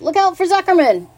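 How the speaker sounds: high, loud warning; gander's yelled warning. A narrator's reading. Gander warning the pig of the farmer, high yell. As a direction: yell a high-pitched alarm. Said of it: "yelled the gander".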